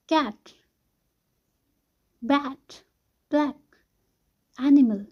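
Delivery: short open A in "कैट, बैट, ब्लैक, एनिमल". Shown as a demonstration. Teacher showing how A is pronounced, short A. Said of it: "ए जैसे pronounce कर रहे थे".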